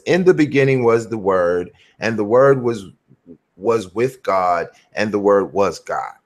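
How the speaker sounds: reading a verse briskly; quick read-through. Shown as a demonstration. Preacher reading John one to a listener, quick read-through. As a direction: read it straight through without dwelling. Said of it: "just read it really fast".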